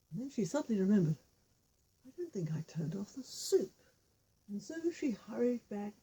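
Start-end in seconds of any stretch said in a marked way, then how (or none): 2.1-3.8 whispered, almost to herself; a hushed oh no; queen's worried whisper. Acted. Queen on the roof whispering about her forgotten soup.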